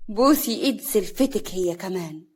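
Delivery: cool, drawn-out command; slow, unbothered order after a sharp first word; cold. Acted. Mother-in-law ordering a humbling hand kiss, coldly. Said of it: "سعاد بكل برود".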